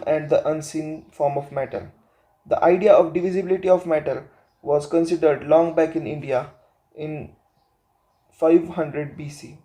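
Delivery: slow, measured reading; textbook read-aloud. Acted. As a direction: read the passage out phrase by phrase. Reads textbook passage aloud.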